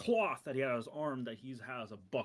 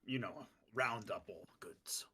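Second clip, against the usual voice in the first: whispered order; 3 semitones lower, 4 dB quieter than usual. Acted.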